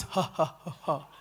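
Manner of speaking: low imitated demon laugh; slow, mocking "ha ha". Possessed woman taunting the preacher, mocking laugh. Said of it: "She's mocking you".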